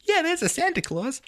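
very high, put-on voice for humoring a child; mock grown-up-to-child voice; talking to children. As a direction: sing out a kindly fib to a kid. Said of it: "You lie to people who are children".

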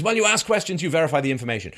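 high, loud sneering parrot; mocking Scott. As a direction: lay on the smug simplicity. Mocking Scott's answer again.

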